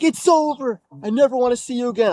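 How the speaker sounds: high, emphatic breakup line; imitating ex-girlfriend. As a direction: mimic her final rejection, racing at the end. Voices ex breaking up.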